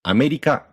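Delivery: "America" as ah-meh-dee-kah rising and staying high; low then high. Shown as a demonstration. Teacher repeating Japanese pitch, "America" ending high. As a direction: start "America" low, hold the last three high. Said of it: "and the last three are high".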